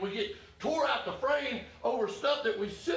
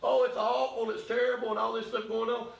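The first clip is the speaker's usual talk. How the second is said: mock whiny testimony. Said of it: "People are gonna get up and testify".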